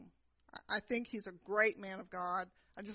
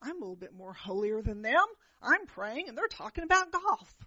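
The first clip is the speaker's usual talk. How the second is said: smug thought. Retold or imitated. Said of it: "I was thinking".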